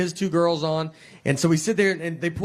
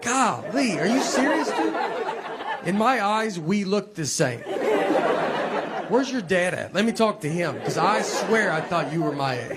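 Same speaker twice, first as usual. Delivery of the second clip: mock disbelief. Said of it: "You're like".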